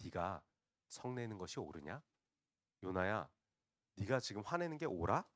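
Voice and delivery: lightly voiced God, gently challenging; God questioning. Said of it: "하나님께서 요나에게 다시 말씀하시죠".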